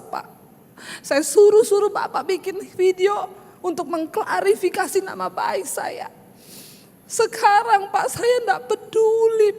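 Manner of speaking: high, teary, pleading apology; retelling a crying phone apology to the man, high and pleading. Retold or imitated. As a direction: beg forgiveness through tears, voice high. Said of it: "dengar saya nangis di telepon".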